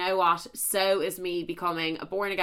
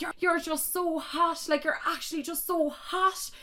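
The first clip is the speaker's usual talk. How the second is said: mimicking his voice; 10 semitones higher than usual. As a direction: coo it like a smitten guy. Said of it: "and he'd be like".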